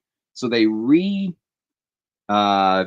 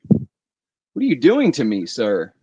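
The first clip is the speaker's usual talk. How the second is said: drawn-out, louder mock plea at a bottle; mock exasperation; 4 dB louder, slower than usual. Hunting for a hidden bottle, he pleads with it in mock exasperation. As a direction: whine at the missing bottle in jest.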